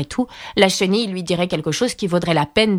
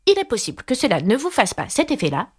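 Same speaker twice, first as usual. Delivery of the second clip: higher-pitched Alice; Alice, polite and earnest; 5 semitones higher than usual. Acted. (Alice, voix aiguë et polie)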